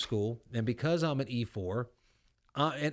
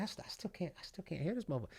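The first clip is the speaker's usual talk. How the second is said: mock not hearing; 4 semitones higher, 12 dB quieter, faster than usual. Sergeant mocks not hearing him.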